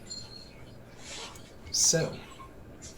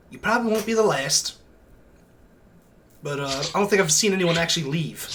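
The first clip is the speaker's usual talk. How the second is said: NPC voice; 3 semitones higher than usual. Acted.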